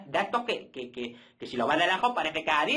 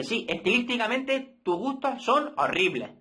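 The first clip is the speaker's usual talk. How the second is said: higher, slow, a lightly put-on snooty stylist voice; mock snooty friend; 7 semitones higher, slower than usual. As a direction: hand down a mock fashion verdict, unhurried and high. Friend Mari criticizing his taste.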